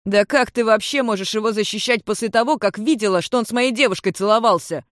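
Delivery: a mild mock shout. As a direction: yell it in jealous accusation. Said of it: "прикрикнул Валифор".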